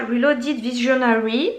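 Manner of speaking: Reloaded Visionary in a hammed-up English accent; mock English accent. Shown as a demonstration. Vlogger naming a palette to viewers in a mock English accent. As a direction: show off an exaggerated English accent, tongue in cheek. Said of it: "avec un superbe accent anglais".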